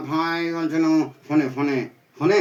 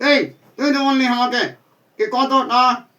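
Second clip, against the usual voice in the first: exasperated complaint; 5 semitones higher than usual. Acted. Friend complains about love measures.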